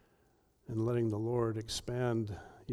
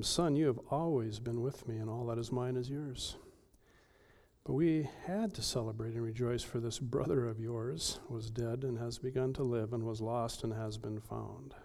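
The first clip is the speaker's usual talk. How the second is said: softer, tender reassurance; gentle father; 6 dB quieter than usual. Acted. Father coaxing his older son, softly tender. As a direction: soothe him like a loving father. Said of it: "the gentle and restorative nature".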